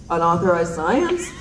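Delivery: "Unauthorized science?" slow, rising like an unsure question; sheepish question. Retold or imitated. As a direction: drag out "Unauthorized science?" and lift "science" uncertainly. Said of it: "And I'm like".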